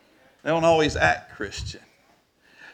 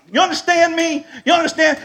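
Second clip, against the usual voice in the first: high, loud, insistent questions; furious challenge; 12 semitones higher, 4 dB louder than usual. Retold or imitated. Accused man threatening the buyer, furious. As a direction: press the threat home, voice raised. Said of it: "I was so furious".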